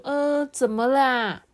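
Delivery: lightly voiced storybook mother; concerned mom. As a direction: ask slowly, as a puzzled mom. Mom voiced entering room.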